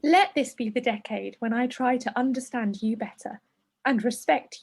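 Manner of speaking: measured, understated reading voice; letter read aloud. A narrator's reading. Presenter reading a letter to hormones, measured. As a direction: read it evenly, as a written letter.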